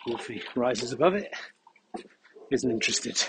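heavy breathing while walking; puffing between phrases. Real, not acted. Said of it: "apologies for the heavy breathing".

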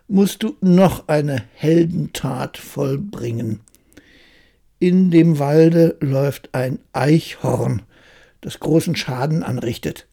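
scheming king. Acted. King sets a new task.

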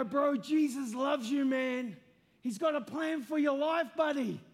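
light, matey appeal; friendly video message. Retold or imitated. First video sent to the mocking man, friendly and upbeat. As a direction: say it chummily, as to a mate. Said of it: "On the video, I go".

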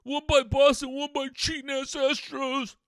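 lightly put-on voice of griping fans; a hint of an aggrieved fan; mocking fans' complaint. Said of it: "everybody's saying".

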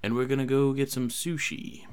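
lightly voiced McConaughey drawl. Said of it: "let me see Matthew McConaughey here".

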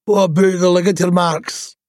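mumbling. Acted.

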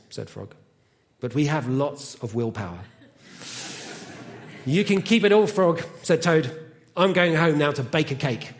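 animated storytelling with deliberate pauses; children's story reading. Acted. Reads a children's story aloud.

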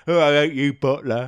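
a hint of Blakey from On the Buses; Blakey impression. Host comparing Roland Rat to Blakey, light imitation. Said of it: "Bit like Blakey from On the Buses".

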